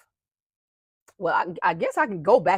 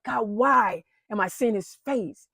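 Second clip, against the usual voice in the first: slow, raised, louder plea to God; imploring, higher and stretched out; retold pleading prayer; 5 semitones higher, 6 dB louder, slower than usual. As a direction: cry out a drawn-out question to God. Retold anguished prayer while crying.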